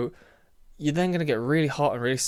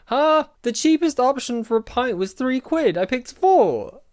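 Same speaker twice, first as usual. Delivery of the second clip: loud, high-pitched protest at an unfair verdict; outraged disbelief; 10 semitones higher, 6 dB louder than usual. Real, not acted. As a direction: burst out indignantly, voice shooting up. Protesting the quiz result.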